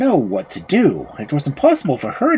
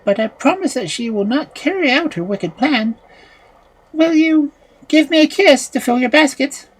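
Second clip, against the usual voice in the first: gentle youth; 12 semitones higher than usual. A narrator's reading. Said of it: "he replied".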